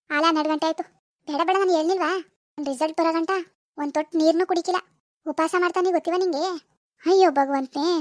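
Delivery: lightly voiced mother ribbing her daughter; teasing mother. (ಮಗಳನ್ನು ಹಾಸ್ಯ ಮಾಡುವ ತಾಯಿಯ ಸ್ವಲ್ಪ ಗಟ್ಟಿ ಧ್ವನಿ)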